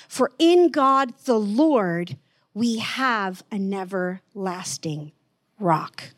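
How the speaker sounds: measured, solemn reading of scripture. Acted. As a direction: read the verse with reverence. Scripture reread.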